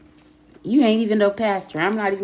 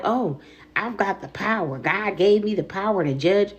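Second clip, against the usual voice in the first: a touch of a smug churchgoer; lightly mock the self-important believer; mocking self-righteous voice. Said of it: "because you feel like".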